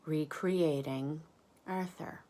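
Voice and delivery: soft unvoiced narration; whisper. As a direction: whisper it like a secret.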